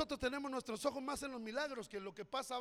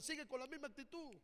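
quiet prompt; 9 dB quieter than usual. Shown as a demonstration. Pastor softly feeding the phrase for the congregation to repeat. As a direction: murmur it for the congregation to echo.

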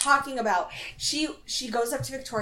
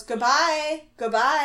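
mock yell, raised and insistent; lightly imitated shouting to cut a call short; Kristen; 5 semitones higher, 4 dB louder, slower than usual. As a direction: talk over someone with a sing-out farewell. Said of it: "screaming it over her".

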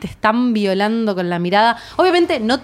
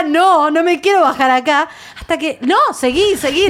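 retold crying plea; 4 semitones higher than usual. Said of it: "Yo lloraba y le decía".

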